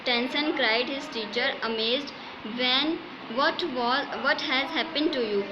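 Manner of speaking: slow, measured textbook reading; story read-aloud. A narrator's reading. Teacher reads English story to students, slow measured read-aloud. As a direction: read it out phrase by phrase.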